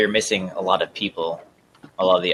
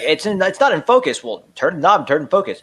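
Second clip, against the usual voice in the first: quoted villain voice; 7 semitones higher, 3 dB louder than usual. Retold or imitated. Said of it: "He was like".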